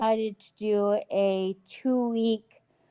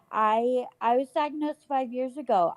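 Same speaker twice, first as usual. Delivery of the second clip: toothless; 3 semitones higher than usual. Real, not acted. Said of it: "Sorry, I don't have my teeth in".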